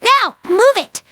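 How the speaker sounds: raspy, very high-pitched shouted order; Rainbow Dash shouting. Acted. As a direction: yell the command from afar, drawn out. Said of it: "Rainbow Dash's raspy voice shouted".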